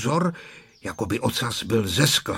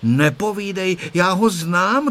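higher, firm contradiction; raised, resolute little voice; 7 semitones higher, 3 dB louder than usual. A narrator's reading. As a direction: put them right decisively. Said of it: "řekla rozhodným hlasem Tereska".

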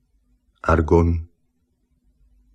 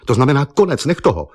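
loud, urgent cry of warning; exclaimed warning; 5 semitones higher, 4 dB louder than usual. A narrator's reading. The painter cries out to Eva to stop drawing, loud and urgent. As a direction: call out to stop her, louder.

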